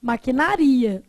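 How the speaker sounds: Maquinaria said slowly as maqui-na-RI-a; slow Maquinaria down, weight on RI; stress on RI. Shown as a demonstration. Teacher showing a paroxytone, Maquinaria slowly stressed on RI. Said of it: "É uma paroxítona".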